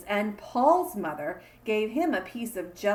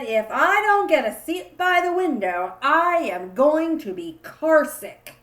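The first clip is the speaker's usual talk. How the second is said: loud, high complaining cry; whiny shout; 5 semitones higher, 7 dB louder than usual. Acted. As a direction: wail it out like a cranky kid. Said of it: "I said".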